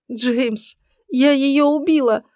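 громкие всхлипы, высоко; рыдай в трубку; плач по телефону. A narrator's reading. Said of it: "всхлипывала Иден в трубку". (плач в телефонную трубку)

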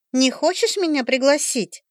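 high, teasing predatory ask. Acted. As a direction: bait him with a hungry invite. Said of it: "хищно начала она". (хищно, заигрывая)

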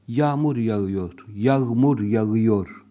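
yağmur yağıyor with each ğ sounded, slow; ğ overpronounced. Shown as a demonstration. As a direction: spell out every ğ in yağmur yağıyor.

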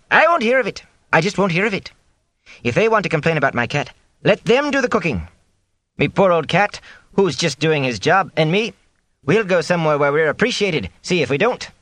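high, indignant cook threatening to quit; huffy cook, voice up high. Acted. Cook refusing to hear complaints about her cat, high and huffy.

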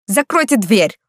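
hoarse angry growl at the staring servants; growled order. Acted. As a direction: snap it shut like an irritated lord. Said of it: "рыкнул Массимо".

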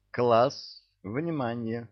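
sharp call to the class. Acted. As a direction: raise the voice for attention. Teacher calls the class.

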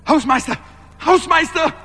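laut gerufen, immer drängender; Hilferuf. Acted. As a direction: ruf nach dem Hausmeister. Ruft um Hilfe. (Hans ruft panisch nach dem Hausmeister)

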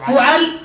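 فعل as fu'al, u then a; damma then fatha. Shown as a demonstration. Teacher continues the pattern list, damma then fatha. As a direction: say فعل with u on f, a after ayn. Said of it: "نضم الفاء".

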